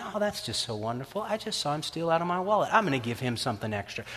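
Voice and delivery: mock delight, quiet and quick; sarcastic. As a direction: toss it off, dripping irony. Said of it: "you thinking".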